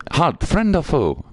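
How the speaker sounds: high, drawn-out sentry challenge; pompous little guard calling halt; challenging guard. Acted. Voicing frog-riding guard's challenge.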